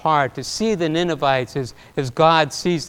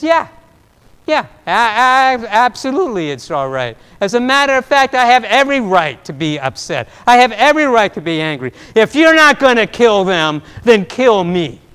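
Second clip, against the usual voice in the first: louder, defiant protest to God; a petulant prophet pushing back, voice raised; angry Jonah; 3 semitones higher, 5 dB louder than usual. Acted.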